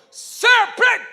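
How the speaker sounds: high, loud, stretched plea cut off; desperate shout. Retold or imitated. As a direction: yell the plea as he passes. Shouting at the preacher again.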